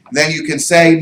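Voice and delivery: ordinary talk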